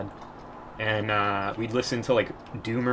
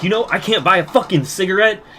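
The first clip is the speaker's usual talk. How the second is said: retold comeback; 8 semitones higher, 9 dB louder than usual. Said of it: "And I was like".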